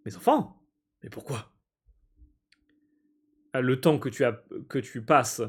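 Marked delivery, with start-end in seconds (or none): 0.1-1.5 incredulous. Real, not acted. Player reacting to demand.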